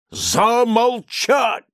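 high, loud, drawn-out shout; roar. A narrator's reading. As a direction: bellow the order. Doctor roars at Laevsky. (громовой приказ)

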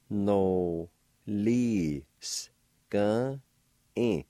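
No, lis, gan, in said slowly, each syllable apart; careful Cherokee pronunciation. Shown as a demonstration. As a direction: sound out No, lis, gan, in with pauses. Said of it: "now I'll pronounce his words".

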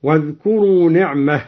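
نعمه ending in a breathy h, ni'mah; stop on final ha. Shown as a demonstration. Reciter showing the pause on نعمه with ha. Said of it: "ووقف على نعمة الله بالهاء".

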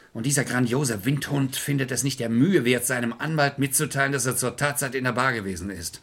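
a scornful rant that keeps pushing harder; angry tirade. Acted. Lawyer berating his clients, scornful and angry. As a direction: lay into them with contempt. Clay scolds the others, furious.

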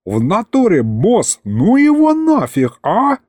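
a panicky little demon; scared imp. Acted. Aristofan begging the boss to stop.

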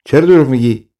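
mildly angry demand; understated angry challenge; angry governor. Acted. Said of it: "خشمگین شد".

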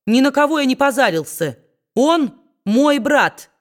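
high, loud indignant reply; loud protest. A narrator's reading. Kit turning to the pulpit and protesting loudly, high. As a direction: stand up to him and say it out loud. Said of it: "громко сказал".

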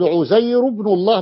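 عزير recited with a plain -u ending; no tanween. Shown as a demonstration. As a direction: run عزير into ابن الله as "Uzayru-bnullah", no nun. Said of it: "بغير تنوين". (تلاوة عزير بضمة دون تنوين)

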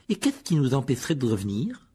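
mildly heated comeback; fiery retort. Acted. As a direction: answer back defiantly. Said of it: "Répondit Ron avec fougue". (réplique fougueuse)

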